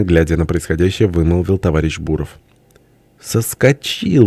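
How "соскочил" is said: high, long-drawn exclamation; hysterical glee. A narrator's reading. Friend of nations realizing the man escaped, hysterical. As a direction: stretch it out in mock-hysterical triumph. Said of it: "вдруг истерически засмеялся друг народов".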